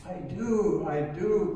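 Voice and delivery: high, loud, pleading yes; the dangling man cries out his faith to God; eager cry. A narrator's reading. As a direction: blurt it out in desperate relief. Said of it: "cried the man".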